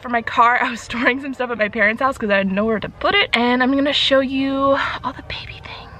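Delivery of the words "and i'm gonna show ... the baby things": unvoiced giddy whisper; excited whisper. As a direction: whisper it like a secret.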